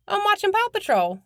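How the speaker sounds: imitating the boy bragging about his show; little boy voice. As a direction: say it like a proud toddler. Mimicking toddler on phone.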